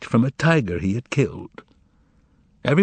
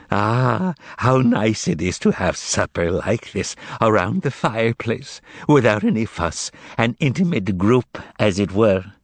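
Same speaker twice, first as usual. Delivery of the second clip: twanged; 3 semitones higher than usual. Acted. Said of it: "twanged Korovyov".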